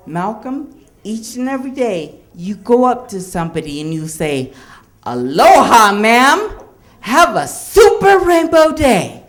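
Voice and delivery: mom's sweet aloha teaching, rising to high. Retold or imitated. Mom teaches her son the aloha greeting sweetly. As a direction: lightly voice mom, bright at the end. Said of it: "She said".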